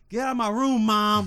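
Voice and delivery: loud bratty shout at mom; hammed-up teenage outburst; mock teen yell. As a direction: yell it like a slamming-door teen. Mocking a slammed-door teen.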